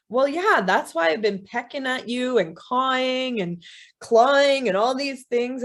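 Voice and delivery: exasperated crow. Acted. Crow explains itself to woman.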